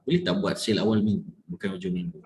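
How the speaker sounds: quick, low scolding request; controlled demonstration of anger, words pushed together; mock angry. Shown as a demonstration. Coach showing the angry version of the request, mock angry.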